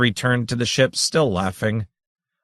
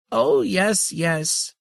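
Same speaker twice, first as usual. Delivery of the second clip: laughing; 9 semitones higher, much slower than usual. Acted. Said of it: "laughed the ultimate grandmother".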